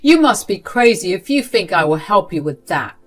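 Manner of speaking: furious refusal. Acted. Sarah furiously refusing her manipulative grandmother. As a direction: shut her down hard. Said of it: "Sarah particularly looked furious".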